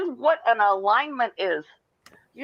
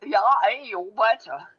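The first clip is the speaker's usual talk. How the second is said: put-on Wisconsin accent. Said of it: "I'm from Wisconsin".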